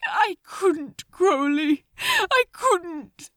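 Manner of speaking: distraught. Acted.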